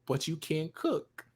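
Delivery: put-on loud, high Jamaican-accented rant. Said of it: "I heard your Jamaican accent almost come out".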